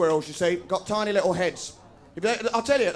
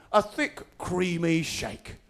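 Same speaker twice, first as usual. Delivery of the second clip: mock advert voice; 3 semitones lower, 5 dB quieter, much slower than usual.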